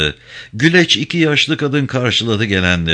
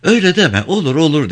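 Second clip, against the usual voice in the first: passenger voice; 8 semitones higher, faster than usual. Acted. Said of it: "dedi gelenlerden birisi".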